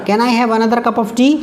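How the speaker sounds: slow, clear polite request; slow dictation. Shown as a demonstration. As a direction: model the question slowly. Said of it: "आप किसे मांग रहे हैं". (धीरे-धीरे विनम्र सवाल)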